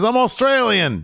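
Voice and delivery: high, slow, loud protest; mock indignant correction. Wrestler correcting his rival's accent guess, mock indignation. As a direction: imitate an offended wrestler, drawn out and high.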